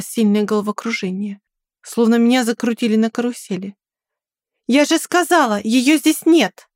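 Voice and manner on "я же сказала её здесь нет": higher, slowed angry shout; Ludmila shouting. A narrator's reading. Ludmila shouting at the intruder to get him out, angry shout. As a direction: yell him off at the door. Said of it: "послышался крик Людмилы".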